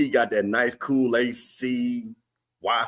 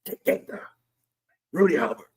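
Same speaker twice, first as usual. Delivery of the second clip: put-on old heads murmuring; 5 semitones higher than usual. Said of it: "old heads would be like".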